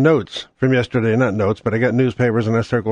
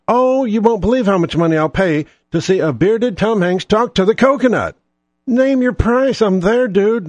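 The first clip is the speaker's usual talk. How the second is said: sarcastic enthusiasm; 7 semitones higher than usual. Retold or imitated.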